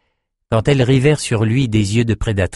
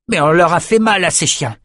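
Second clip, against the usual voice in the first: high-pitched defiant exclamation; crying out; 8 semitones higher than usual. A narrator's reading. Jed about the enemy soldiers, crying out. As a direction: exclaim it with fighting pride. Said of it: "s'écria Jed".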